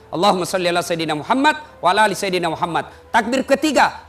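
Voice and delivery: usual speaking voice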